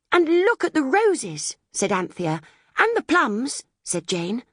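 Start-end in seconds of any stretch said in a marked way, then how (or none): 0.1-1.6 put-on high, slow, delighted girl's voice. A narrator's reading. Anthea delighted at roses. 2.8-3.6 put-on high, eager girl's voice; eager little girl. A narrator's reading. Jane adding eagerly.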